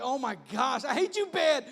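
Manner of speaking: loud outburst climbing high; mock fury. Sleeper ten minutes late blaming his bed, mock fury. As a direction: yell it in hammed-up frustration.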